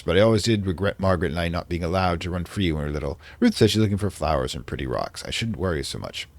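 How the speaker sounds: put-on light British accent for a diary entry; reading a diary in a mild British accent; vaguely British accent. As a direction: read it like a 1920s English diarist. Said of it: "I'm doing a vaguely British accent".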